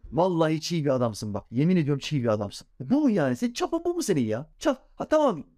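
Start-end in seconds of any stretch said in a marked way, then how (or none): 3.4-5.4 mocking. Mocking a petty prayer.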